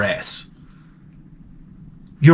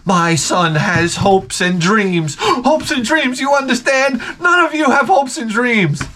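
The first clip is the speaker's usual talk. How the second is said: slow, higher, preachy mock mother; berating mother; 7 semitones higher, slower than usual. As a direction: lay on the outraged mom, drawn out.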